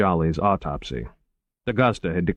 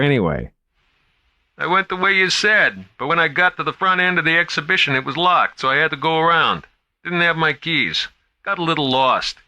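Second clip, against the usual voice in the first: high, worried guard on the radio; guard calling in, a little lost; higher, anxious young guard voice; nervous young guard; 9 semitones higher, 3 dB louder than usual. A narrator's reading. Guards chat over radio.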